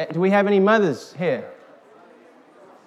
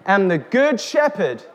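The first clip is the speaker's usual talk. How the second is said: reading scripture; slower than usual. A narrator's reading. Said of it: "It says".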